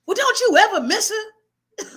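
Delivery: high, slow, feisty challenge; feisty question. Retold or imitated. Grandson challenging his grandmother, feisty but careful. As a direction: push back without being disrespectful. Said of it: "I got as feisty as I could get".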